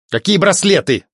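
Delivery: high, indignant-sounding exclamation; exclaiming. A narrator's reading. Alfred answers the priest about the bracelets, exclaiming. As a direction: exclaim it with pitch jumping up. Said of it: "воскликнул Альфред".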